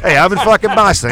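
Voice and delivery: lightly put-on Boston accent. Real, not acted. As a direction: throw on a bit of Boston accent. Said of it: "I throw the accent on a little bit".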